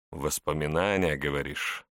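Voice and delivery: wry smirking question. Acted. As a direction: let a smirk sit on the words. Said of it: "усмехнулся тот".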